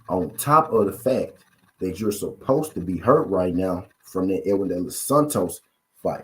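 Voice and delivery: said again, slow and deliberate; slowly. Shown as a demonstration. Repeating the point to viewers, slowly. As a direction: spell it out slowly so it lands. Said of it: "I'm gonna say that again slow".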